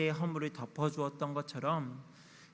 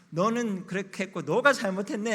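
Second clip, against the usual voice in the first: a touch of a judge handing down blame, louder and higher; judging father; 4 semitones higher, 6 dB louder than usual. Retold or imitated. Father rules on his daughters' fight, mildly scolding. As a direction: pronounce the verdict on a squabbling child. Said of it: "제가 입법자가 되고 판단자가 되어서".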